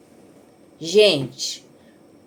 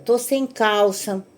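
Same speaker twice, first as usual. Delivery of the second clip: mock whine; 2 semitones higher, slower than usual. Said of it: "A história".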